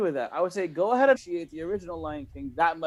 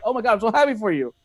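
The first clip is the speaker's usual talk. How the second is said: a touch of elated gushing, pitched up; retold joy; 4 semitones higher, faster than usual. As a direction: relive the delight at the screen. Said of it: "about to jump for joy".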